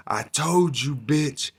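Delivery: lightly voiced old man, yelling; a hint of a gruff old man shouting; scratchy old man yell. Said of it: "he's got that real fucking scratchy old man voice".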